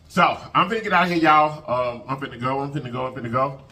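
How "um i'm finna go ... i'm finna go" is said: choked up. Real, not acted. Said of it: "I apologize for getting emotional".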